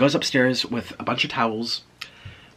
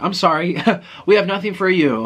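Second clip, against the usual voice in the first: badly faked Russian accent, higher and louder; 7 semitones higher, 5 dB louder than usual. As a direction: have a clumsy go at a Russian accent. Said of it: "I can't do Russian accent".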